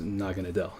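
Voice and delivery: "Naganadel" as NAH-guh-nuh-DELL; "Naganadel" read plainly, short E at the end; as-read pronunciation. Shown as a demonstration. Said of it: "if you were to just read it".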